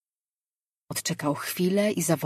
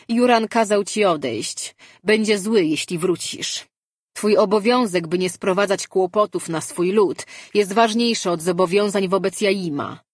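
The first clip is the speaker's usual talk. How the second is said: forceful insistence; 3 semitones higher, 4 dB louder than usual. Acted. Mirar argues hard.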